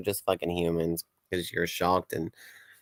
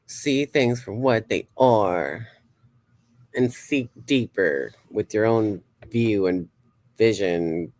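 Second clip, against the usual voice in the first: mystic pronouncement. Acted. Performing psychic reading.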